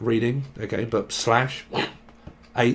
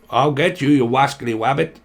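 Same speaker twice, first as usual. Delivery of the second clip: Elmer Fudd; 3 dB louder than usual. Retold or imitated. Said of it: "you wascally rabbit".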